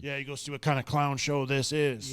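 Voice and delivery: gruff imitation of Tigh. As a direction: do Saul Tigh, dismissive. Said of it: "I like doing the Ty voice".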